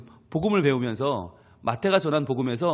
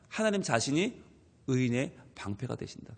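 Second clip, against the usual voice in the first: ordinary talk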